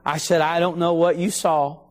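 a touch of gentle tenderness; tender. Retold or imitated. Bible teacher gently corrects little boy, tender. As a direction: let the child down gently, mildly tender. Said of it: "as tenderly as I could".

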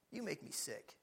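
very soft, low rebuke; kindly and sweetly. Real, not acted. Preacher chiding judgmental Christians, softly. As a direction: drop right down and say it gently. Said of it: "I'm saying it kindly and sweetly".

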